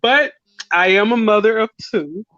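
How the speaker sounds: ordinary talk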